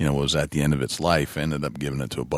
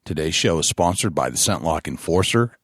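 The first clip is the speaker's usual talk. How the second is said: announcer read of title and sponsors; measured, emphatic sponsor billboard; podcast announcer; 2 semitones higher than usual. Acted. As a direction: punch out each billing like a show intro. Reads show title and sponsors.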